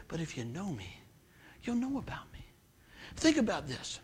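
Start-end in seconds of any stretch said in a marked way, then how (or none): 0.1-2.4 hushed, gentle voice of the Lord; soft whisper of God. Retold or imitated. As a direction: let it fall soft and intimate. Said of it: "But Lord just whispered to me".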